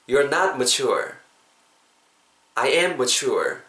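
very slow, each word stretched; slow example lines. Shown as a demonstration. Teacher gives slow example sentences to copy. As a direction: say it slowly for them to repeat. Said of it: "따라해보세요".

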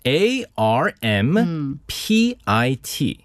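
letter by letter, very slow; spelling it out. Shown as a demonstration. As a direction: spell A R M P I T out slowly. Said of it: "그 스펠링이 어떻게 되죠?".

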